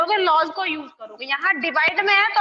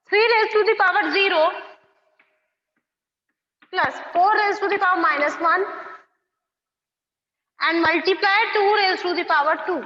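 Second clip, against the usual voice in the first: slow, word by word, for copying; slow dictation; much slower than usual. Shown as a demonstration. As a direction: spell it out slowly so they can write. Dictating question three for notes. (धीरे-धीरे लिखवाते हुए)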